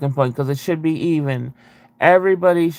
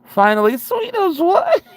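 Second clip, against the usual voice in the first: very high, louder mock yell of glee; retold yell; 4 dB louder than usual. Laughing at her sister in the crashing plane, yelling high. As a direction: shriek it gleefully as the plane goes down. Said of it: "and yelled".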